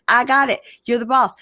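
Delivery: high, loud mock placating; hammed-up eager-to-please husband; appeasing husband imitation. Voicing husband appeasing his partner.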